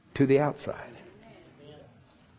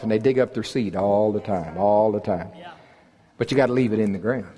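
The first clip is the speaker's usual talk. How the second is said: usual speaking voice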